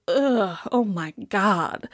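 slow, drawn-out groan of disgust; mild mock revulsion; disgusted visitor. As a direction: recoil from the painting.

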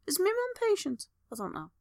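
high, soft whisper to herself; whispering her thoughts aloud; whispered musing. Real, not acted. Wondering to herself about her mum, in a high whisper.

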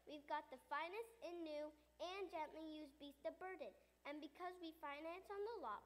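upbeat used-car salesman pitch; radio commercial. Acted. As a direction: sell it like a radio ad. Used camel lot commercial.

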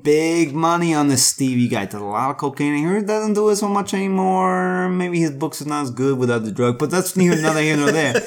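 brash fast-talking producer; studio executive voice. Retold or imitated. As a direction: sell the deal like a mogul. Plays studio executive pitching.

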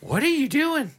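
very high-pitched mock disbelief; incredulous retold question. Asking about Mom's cloud and phone both full, incredulous. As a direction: squeak it out, baffled and exaggerated.

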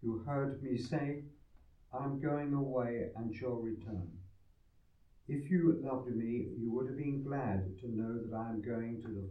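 solemn scripture reading; formal reading. Acted. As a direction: read like a solemn lector. Gospel proclaimed at mass.

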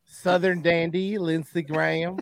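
slow, lightly drawled Southern dandy; Lindsey Graham. Acted. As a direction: put on a playful Southern accent. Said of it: "impersonation of, uh, of Lindsey".

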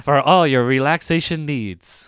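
smooth spa ad voiceover. Pretend. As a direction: sell it like a spa commercial. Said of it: "you have a good automated voice".

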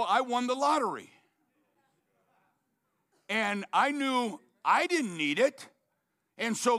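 excited preacher voicing the beggar; joyful retelling. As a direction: announce the good news with joy. Michael's joyful retold speech.

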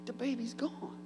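high, soft mock grief over baby photos; mock lament. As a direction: wail softly like a nostalgic parent. Parent mourning baby photos.

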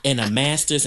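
haughty imitation, slowed and laughing; hammed-up indignant reality star; mock prissy arrestee. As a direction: play the entitled woman pleading with the officer. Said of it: "that's exactly how she be talking".

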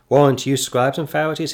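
loud preacher's rebuke; denouncing. Acted. Jesus condemning the Pharisees, loud rebuke. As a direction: call down the woe on them.

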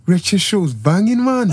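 loosely attempted Birmingham accent. Shown as a demonstration. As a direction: have a shaky go at Brummie. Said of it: "now do your Birmingham accent".

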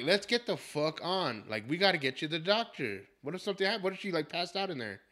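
annoyed, worried son losing patience; pissed off. Retold or imitated. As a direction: scold someone into hurrying. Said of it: "And I'm pissed, dude".

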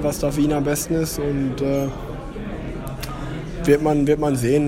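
recorded over the phone; phone recording. Real, not acted. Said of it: "sorry für die Tonqualität".

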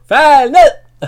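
loud, high barked command; shouted order. Retold or imitated. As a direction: yell it like an officer losing it. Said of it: "hun råber".

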